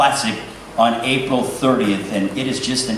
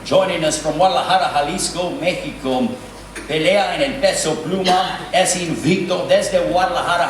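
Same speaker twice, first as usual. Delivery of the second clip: ring announcer; 2 semitones higher than usual. Acted. Ring announcer introducing a fighter.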